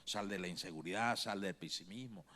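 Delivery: Jesus gently telling his followers to let go of fear; gentle urging. Acted. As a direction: lead them out of fear gently. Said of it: "Como diciendo".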